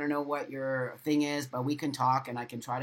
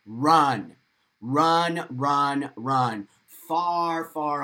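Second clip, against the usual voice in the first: loud repeated command to run; insistent, rising-to-loud plea; emphatic urging; 6 dB louder, much slower than usual. Real, not acted. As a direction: drive each run home like a warning. Urging viewers to flee bullies.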